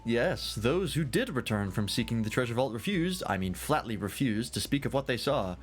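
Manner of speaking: animated, lilting tavern tale-teller; tipsy storyteller. Acted. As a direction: ramble through the legend like a merry scholar. Voices tipsy storyteller resuming tale.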